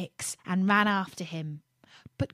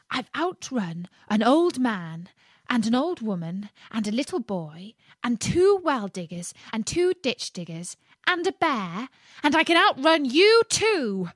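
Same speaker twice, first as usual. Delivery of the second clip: rising, louder cocky brag; boastful gingerbread man; 4 semitones higher, 4 dB louder than usual. Acted. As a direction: brag with growing glee.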